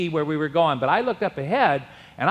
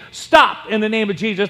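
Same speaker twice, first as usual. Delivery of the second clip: raised loud rebuke; rebuking the waves; 4 semitones higher, 4 dB louder than usual. Retold or imitated. Preacher in the boat commands the waves, loud rebuke. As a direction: order the waves to stop. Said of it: "I said to the waves".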